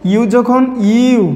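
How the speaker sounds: very slow, stretched teacher phrase; drawn-out slow. Shown as a demonstration. Teacher stretching out the U rule for students, very slow. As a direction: stretch each word so it sinks in.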